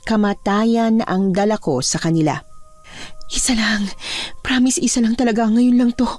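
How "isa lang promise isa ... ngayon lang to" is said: coaxing, slightly raised plea; pleading. Acted. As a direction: beg for just one more chance. Pleading with the chickens before killing.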